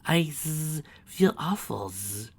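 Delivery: high sobbing voice; wailing sob. Acted. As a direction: cry through the words. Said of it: "Chrysalis wailed".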